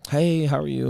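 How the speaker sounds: lightly imitated chipper girlfriend; girl voice. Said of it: "that's just my girl voice".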